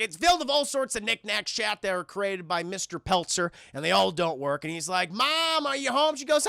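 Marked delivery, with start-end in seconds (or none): 5.1-6.2 put-on higher-pitched kid calling through the house; a touch higher, calling out; calling out for mom. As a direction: lightly mimic a boy calling for his mother. Son calls out to mom.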